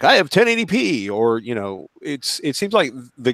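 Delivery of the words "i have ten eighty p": mocking customer voice. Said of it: "so many people are like".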